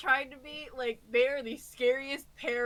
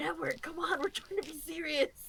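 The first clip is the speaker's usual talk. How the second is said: speaking in a whisper; 4 semitones higher, 5 dB quieter than usual. Leo finally stops the spinning chair and speaks to Edward, whispering. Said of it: "kind of whispers".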